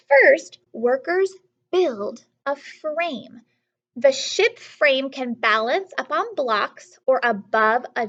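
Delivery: slow, careful storybook read-aloud; teacher reading the page to the class, slow and clear; reading aloud to children. Acted. Teacher reading a ship book to students, slowly.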